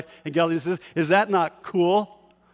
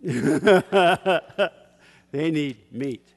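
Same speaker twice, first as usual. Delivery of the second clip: laughing punchline; 4 dB louder, much slower than usual. Real, not acted. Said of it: "I'm gonna offend some people".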